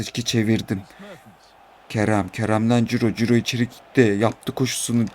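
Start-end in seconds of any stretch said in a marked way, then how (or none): 1.9-5.0 play-by-play rising with the attack; live football commentary. Pretend. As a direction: narrate your own match like a commentator.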